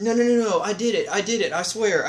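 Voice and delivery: high, loud, frantic denial; panicked pleading. Acted. Saul begging the prophet not to condemn him, panicked. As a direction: beg your way out of it.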